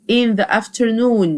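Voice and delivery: "in the afternoon" said slowly; slow it down for copying; slow teacher dictation. Shown as a demonstration. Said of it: "اسمها in the afternoon".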